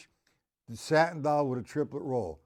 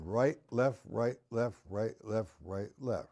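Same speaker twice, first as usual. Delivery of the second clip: rhythmic recitation; 3 semitones lower, 4 dB quieter than usual. Shown as a demonstration. Reciting sticking pattern in rhythm.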